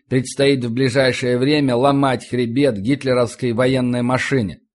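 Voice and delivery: ordinary delivery, nothing marked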